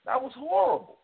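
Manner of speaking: high, choked-up voice holding back tears; real, near-tearful upset; fighting back tears. Real, not acted. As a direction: push through the words on the edge of crying. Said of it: "I had to fight back tears".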